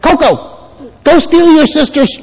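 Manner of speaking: high-pitched put-on voice; mock voice urging naughtiness; tempting voice. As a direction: playfully egg a child on to mischief. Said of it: "if it says".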